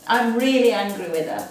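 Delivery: real-feeling anger, stated; voicing anger. Shown as a demonstration. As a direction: let the anger out in the words. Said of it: "So getting back".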